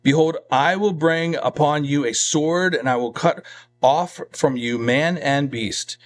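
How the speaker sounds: measured, emphatic Bible reading; scripture reading. Real, not acted. Preacher reading God's judgment on Egypt, measured scripture reading. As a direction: read it out as a solemn decree.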